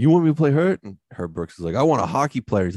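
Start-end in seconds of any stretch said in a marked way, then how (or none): 0.0-0.8 put-on high, loud Boston-accented protest; indignant hockey player in a silly Boston accent. Hurt player challenges his coach, silly Boston accent. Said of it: "he's got a silly Boston accent". 1.8-2.7 mildly raised, higher coach voice; retold locker-room yell, only half loud. Coach tells the hurt player off, retold yell. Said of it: "starts yelling at people".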